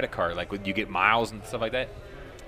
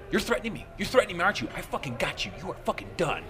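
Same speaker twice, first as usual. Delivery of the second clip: mock scream; 6 semitones higher, 4 dB quieter, faster than usual. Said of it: "he's screaming at me".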